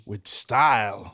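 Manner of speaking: low, slow, drawn-out delivery; movie hero quote. Acted. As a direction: drop low and stretch it out. Quotes Buzz's line.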